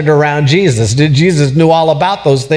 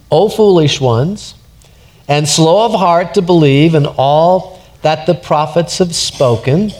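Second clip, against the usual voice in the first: gentle rebuke. Shown as a demonstration. Pastor shows Jesus rebuking his disciples: gentle rebuke. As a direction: correct them gently, like a loving teacher. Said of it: "this is a gentle rebuke".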